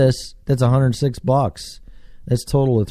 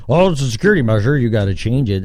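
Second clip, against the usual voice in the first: mock officialdom; 3 dB louder, much faster than usual. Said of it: "How come they keep changing them?".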